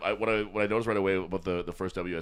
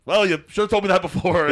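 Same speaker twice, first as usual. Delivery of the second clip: higher, louder irritated comeback; mock irritated; 11 semitones higher, 10 dB louder than usual. Husband snapping back at his wife, mock irritated. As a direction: snap back in mock annoyance. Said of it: "He was like".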